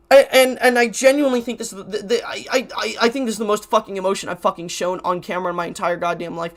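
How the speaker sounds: stammering, halting and repeating; stuttering. Real, not acted. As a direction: trip over the words, restarting. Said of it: "Sorry that I'm stuttering so much".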